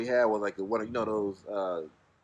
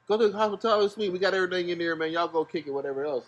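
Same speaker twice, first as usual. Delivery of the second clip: higher, fast, eager offer; imitating the manager; 6 semitones higher, faster than usual. Manager pushing the hospitality suite, higher and quick. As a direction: rattle off the offer. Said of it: "he's like".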